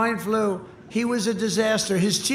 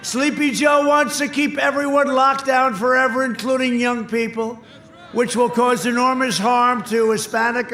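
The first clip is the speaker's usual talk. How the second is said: rally shout; 4 semitones higher, 3 dB louder than usual. Real, not acted.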